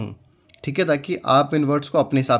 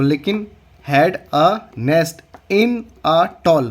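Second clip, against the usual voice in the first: slow model reading; 3 dB louder, much slower than usual. Shown as a demonstration. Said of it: "teacher reads sentence slowly".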